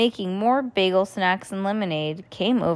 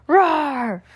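roar; 6 semitones higher than usual. Acted. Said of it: "made a big growl sound".

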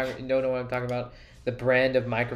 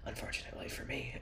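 soft rueful whisper under the breath; whispered aside; 14 dB quieter, faster than usual. Real, not acted. Host admits the blooper stays in, whispering ruefully. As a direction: whisper it to yourself, a little embarrassed. Embarrassed aside after a gaffe.

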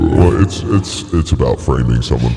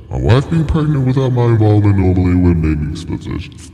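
higher, quicker run at the line; raised-voice retake; 6 semitones higher than usual. Shown as a demonstration. Performer retrying a line one more time, high-pitched retake.

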